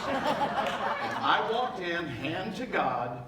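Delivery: very slow, laughing I walked in. Real, not acted. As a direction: drag "I walked in" out while laughing. He restarts the line, laughing the first time.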